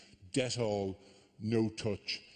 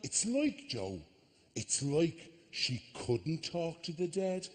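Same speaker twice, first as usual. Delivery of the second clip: mocking psychic; 5 semitones higher, slower than usual. Mocking psychic repeating backstage cue.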